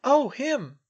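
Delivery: thinly hidden disapproval; masked disapproval. A narrator's reading. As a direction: keep the distaste barely hidden. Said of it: "trying to mask her disapproval".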